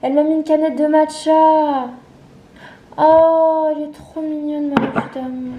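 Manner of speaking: high, loud gushing; too much caffeine. Real, not acted. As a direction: squeal over the cute gift. Hyped unboxing gift from friend.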